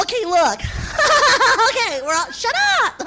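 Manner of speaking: put-on high, fast chirpy girl voice; rally the girls, take charge; young woman herding friends to go out; bossy party girl. Girl team captain rallying friends.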